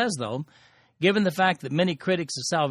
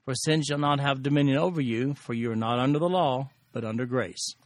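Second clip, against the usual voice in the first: measured, solemn Bible reading; scripture reading. Acted. Teacher reading scripture to the class, solemn. Reads the scripture passage aloud.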